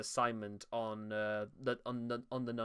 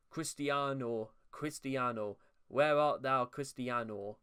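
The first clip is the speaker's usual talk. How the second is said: hammed-up Spanish accent on the name; light Spanish-accented Romeo; mock Spanish accent; slower than usual. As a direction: drawl Cristiano with a mock Spanish lilt. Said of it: "I don't know why she's turned Spanish".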